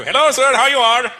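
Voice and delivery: loud, high hammed-up Indian accent. Indian shopkeeper greeting a customer, hammed-up Indian accent. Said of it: "we really ham it up too".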